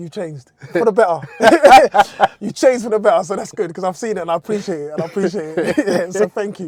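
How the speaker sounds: loud speech broken up with laughter.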